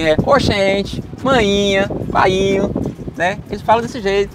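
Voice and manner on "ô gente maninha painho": lightly put-on Bahia accent, slow ô gente; a hint of a Bahia accent. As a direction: drawl ô gente like a Bahian, loosely. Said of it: "Eles falam muito assim".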